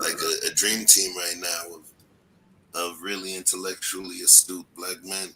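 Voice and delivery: robotic, glitchy mic sound. Real, not acted. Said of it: "but you sound robotic".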